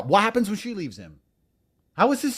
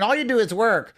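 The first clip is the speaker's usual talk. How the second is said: mock complaint; 5 semitones higher than usual. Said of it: "Then they'll complain".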